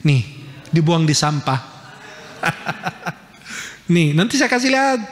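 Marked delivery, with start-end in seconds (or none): 2.4-3.1 quiet breathy chuckle; amused little laugh. Real, not acted. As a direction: chuckle softly to yourself. Amused by notes thrown away.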